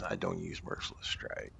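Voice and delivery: soft unvoiced aside; whisper. Real, not acted. Gamer muttering to himself about an unused skill, whispered. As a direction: whisper it to yourself.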